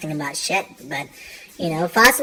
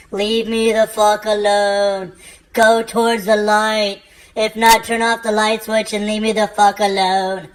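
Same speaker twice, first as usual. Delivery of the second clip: annoyed at ghost; slower than usual. Retold or imitated. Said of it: "you're like".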